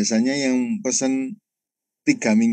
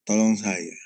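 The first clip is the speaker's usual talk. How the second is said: retold prayer; 3 semitones lower than usual. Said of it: "Saya cuma doa".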